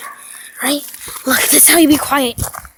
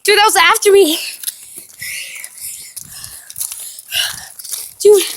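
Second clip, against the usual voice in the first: excited; 5 semitones higher than usual. Real, not acted. Excited recap after chase.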